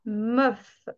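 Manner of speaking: meuf drawn out slowly, eu vowel held; slow clear meuf. Shown as a demonstration. Teacher showing students how meuf is really pronounced, slowly. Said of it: "on le dit meuf".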